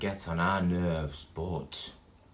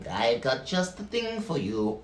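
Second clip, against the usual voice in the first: pet shop owner voice; 4 semitones higher than usual. Acted. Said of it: "that's how pet shop owners talk".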